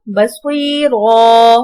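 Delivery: "बसुईरा" ending on a long open ro; full final "ro". Shown as a demonstration. Teacher shows the stop form, "बसुईरा" with long open ending. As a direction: hold the last syllable of "बसुईरा" as ro, without n. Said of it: "रौ करके पढ़ेंगे".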